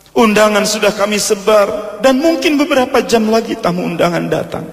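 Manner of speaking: high, pleading protest; acted distress, pitched high throughout; desperate father. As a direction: press the case in a high voice. Bride's father protests the cancellation.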